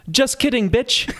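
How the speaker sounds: very high mock British child voice; a little British boy springing his trick; British kid. British kid betraying his new friend, high British child voice. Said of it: "this British kid has got that British voice".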